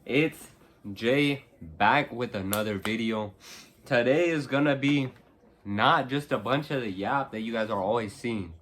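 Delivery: slight lisp from a retainer; talking around new retainers; wearing a retainer. Real, not acted. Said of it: "I got my retainers in".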